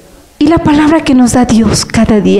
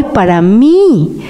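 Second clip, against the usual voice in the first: slow, breathy whisper of a personal truth; slow intimate whisper; whispered aside; slower than usual. Real, not acted. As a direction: whisper it to yourself, slowly.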